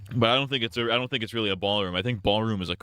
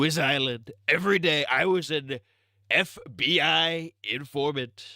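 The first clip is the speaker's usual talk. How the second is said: hammed-up Trump rambling; Trump impression; 5 semitones higher than usual. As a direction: brag like Trump at a rally. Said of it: "my Trump impression".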